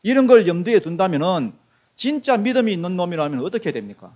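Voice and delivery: usual speaking voice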